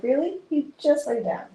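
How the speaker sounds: a high, mock-indignant pet voice; imitating the cat. Voicing her cat Oliver complaining she got up, high and mock-offended. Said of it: "he was like".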